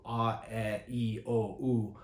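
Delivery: "a, e, i, o, u" shaped from the British "earth" vowel. Shown as a demonstration. Poet showing singers altered vowels, "a, e, i, o, u" coloured like British "earth". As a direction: round "a, e, i, o, u" towards an "uh" vowel. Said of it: "all pronounced from that place of earth".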